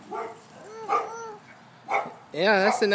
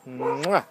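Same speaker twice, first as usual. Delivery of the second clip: kiss sound; 5 semitones lower than usual. Shown as a demonstration. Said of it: "can you blow a kiss".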